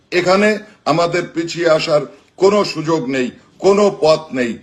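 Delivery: rousing rally speech with slogans; booming rousing general speech. Acted. Rallying political speech, live.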